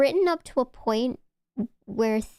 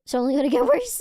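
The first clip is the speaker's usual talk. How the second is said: laughing; 3 semitones higher, 4 dB louder, faster than usual. Real, not acted. Laughing at her own sad story.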